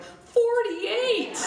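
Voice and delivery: loud, high, gleeful announcement; excited shout. Retold or imitated. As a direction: shout it proudly at the top of your range. Kids proudly announce the clue count.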